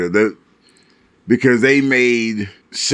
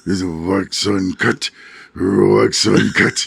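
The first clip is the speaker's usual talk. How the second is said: put-on wise old master voice; 5 semitones lower, slower than usual. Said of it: "wise old man voice".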